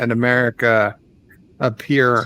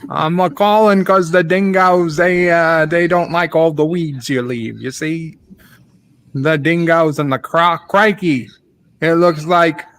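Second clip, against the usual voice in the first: a hammed-up Australian accent, lightly done; lightly voiced Australian caller ranting about dingoes; mock Aussie accent. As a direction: play a blustering Aussie neighbour on the phone, mock Aussie twang. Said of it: "I do it as Ozzy Opre".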